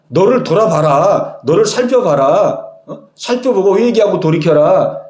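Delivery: measured, lightly acted reproach; mild rebuke. Preacher voicing God reproving Cain, mild rebuke. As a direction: question him firmly, then urge self-examination. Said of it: "지금 가인에게 이렇게 지금 책망하고 있어요".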